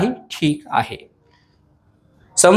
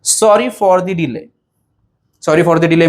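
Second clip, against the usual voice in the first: slow, each word clear; slow dictation; much slower than usual. Shown as a demonstration. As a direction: say it slowly for the class. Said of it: "कसं म्हणायचं?". (हळू, स्पष्ट)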